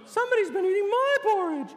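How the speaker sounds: hammed-up scolding storybook bear mother; Mama Bear growl. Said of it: "Mama Bear growled".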